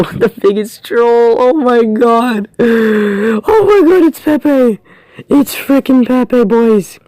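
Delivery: high, slow, near-crying disbelief; laughing. Real, not acted. Gamer gets Pepe not Ronaldo, laughing in disbelief. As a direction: laugh through the letdown.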